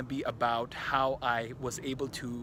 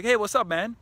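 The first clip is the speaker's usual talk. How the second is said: breezy loud greeting; 6 semitones higher, 8 dB louder than usual. Retold or imitated. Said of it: "And I'm like".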